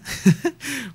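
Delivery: risita aguda al buscar la palabra; risa breve. Real, not acted. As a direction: suelta una risa corta y aguda. (risita espontánea)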